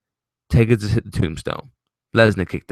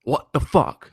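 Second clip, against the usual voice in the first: higher, stunned exclamation; mock shocked outburst; 7 semitones higher, slower than usual. Shown as a demonstration. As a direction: show how gobsmacked you were. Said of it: "Like that".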